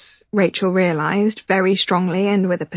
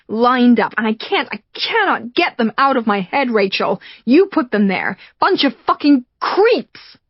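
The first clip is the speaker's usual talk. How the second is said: angry rant; 4 semitones higher than usual. Acted. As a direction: spit it out at her, resentful. Michael rants about her past.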